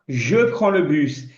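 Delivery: slow, careful French; slow French demo. Shown as a demonstration. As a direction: spell it out in sound for learners. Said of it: "Eu vou falar". (francês bem pausado)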